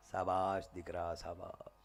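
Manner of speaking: low, slow, hushed approval; gentle praise. Acted. God praises the forgetful man, low and slow. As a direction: drop right down and draw it out softly.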